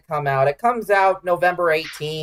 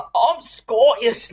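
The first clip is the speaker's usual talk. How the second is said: mock Scottish line; 3 semitones higher, much slower than usual. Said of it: "you have to say the".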